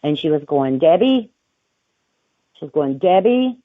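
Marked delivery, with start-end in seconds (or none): 0.8-1.3 louder, raised call of her name. Retold or imitated. Lady calling her name. 3.0-3.6 louder, raised call of her name. Retold or imitated. Lady calling again.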